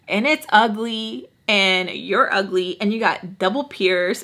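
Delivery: slow, drawn-out retold teasing; making fun. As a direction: tease her, dragging out the words. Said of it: "I'm just, like, making fun of her".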